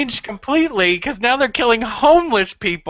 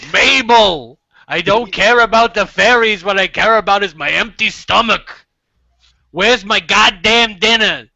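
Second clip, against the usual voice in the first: put-on grumpy Jersey drunk yelling for dinner; loud cranky husband from New Jersey; Jersey drunk guy; 4 dB louder than usual. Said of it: "Jersey alcoholic guy that you do".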